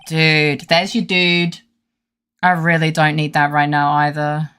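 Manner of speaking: loud, lightly voiced surfer; a hint of surfer dude at full volume. Surfer client brushing off an offer, loud dude voice. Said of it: "Oh, no, he's a surfer".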